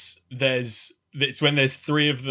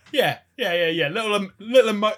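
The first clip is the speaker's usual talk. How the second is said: higher-pitched, eager cheering-on; playful, raised-pitch approval; mock enthusiasm; 7 semitones higher, 5 dB louder, faster than usual. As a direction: egg them on with quick approval. Acted approval of the three-way hug.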